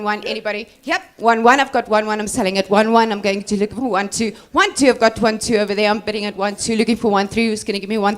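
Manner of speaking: brisk auction bid calling; auctioneer. Acted. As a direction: call out the bids briskly. Second auctioneer calls bids.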